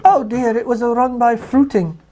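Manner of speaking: put-on high, fussing old-nanny voice. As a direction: fuss like a flustered old nanny. Keeps the nanny voice going.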